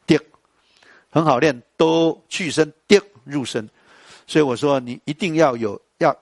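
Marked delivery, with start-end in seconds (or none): 0.0-0.2 滴 short and clipped; entering tone demo. Shown as a demonstration. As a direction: stop 滴 abruptly. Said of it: "入声，滴". (短促入声)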